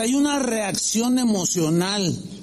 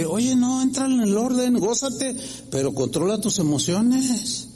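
a higher, firm call to order; stern correction; 5 semitones higher than usual. Retold or imitated. Pastor voicing Lucy calling a worshipper to order. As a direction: rein in an overexcited worshipper.

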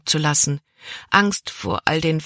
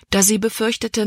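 plain reading voice

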